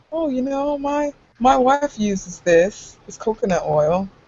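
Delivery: very slow, soft, gentle salesman murmur. Imitating Doug selling a product: imitating Doug's soft voice. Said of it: "It's so soft".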